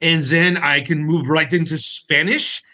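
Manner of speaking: mock Australian sliding into Spanish, then Japanese; comic mash-up of Australian, Spanish and Japanese accents; jokey bad accents. Shown as a demonstration. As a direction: hop through three badly faked accents, Australian, Spanish, Japanese. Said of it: "working on my Australian accent".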